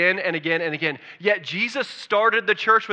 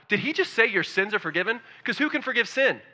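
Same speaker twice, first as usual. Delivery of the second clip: higher-pitched mock disbelief; mildly freaked out; 5 semitones higher than usual. Religious leaders reacting to Jesus forgiving sins, mildly freaked out. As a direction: imitate scandalized objectors questioning what was said. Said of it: "They freaked out".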